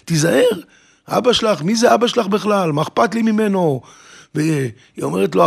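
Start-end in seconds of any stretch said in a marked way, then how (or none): 0.0-0.6 acted-out shrill warning; retold yelling. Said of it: "והיא צועקת לו". 1.1-3.8 higher-pitched, dismissive acted retort; imitating an angry brush-off; scornful retort. Drunk groom scorns her father.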